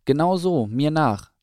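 loud, high rallying call; mother owl calling. A narrator's reading. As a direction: call the little ones to follow. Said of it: "rief Mama Eule".

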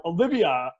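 mild re-enacted shout; retold call-out. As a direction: call out "Olivia" as if hailing someone. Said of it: "or shout out".

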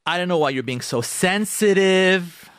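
drawn-out, slow, scornful complaint; mock spousal put-down; dismissive husband. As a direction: stretch out "sensitive" in exasperation.

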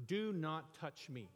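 "Do not touch me" slow and stern, each word spaced; stern King James Jesus. Retold or imitated. Preacher voicing the King James Jesus, slow and stern. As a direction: forbid it with slow stern weight. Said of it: "That's how the King James decided to interpret".

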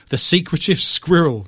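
put-on light old British newsreel read; old English British accent. Host stumbles through squirrel report, mock old British newsreel accent. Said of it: "I'm gonna do this in an old English British accent".

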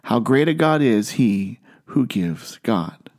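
deliberate phrasing, dropping on "he who gives God"; slow down on "who gives God" to untangle it; careful enunciation. Shown as a demonstration. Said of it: "just the right amount of nun-, enunciation and inflection".

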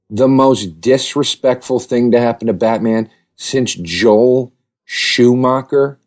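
dragging out "Joel Schumacher?" very slowly in disbelief; disbelieving, slow question; incredulous repeat. Acted. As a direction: repeat it like it's absurd, stretching "Schumacher".

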